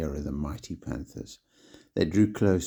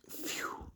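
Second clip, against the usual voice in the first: relieved phew; 15 dB quieter than usual. A narrator's reading. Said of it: "waved their hands and went".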